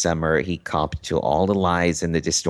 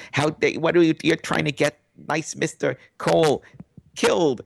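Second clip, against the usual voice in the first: high, ranting mock fury; reaming him out; 9 semitones higher than usual. Rubin rages at Shermer on the phone, high mock fury. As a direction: tear into him in a shrill imitated rage. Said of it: "reams him out".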